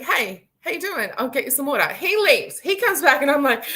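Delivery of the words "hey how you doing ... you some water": lightly voiced cheerful waiter; friendly waiter. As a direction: play the kind hotel waiter greeting her. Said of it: "This gentleman's like".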